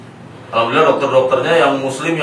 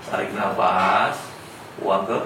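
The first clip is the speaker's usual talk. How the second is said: calming breath guide; 3 semitones lower, 5 dB quieter, slower than usual. Shown as a demonstration. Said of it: "kalau lagi gelisah".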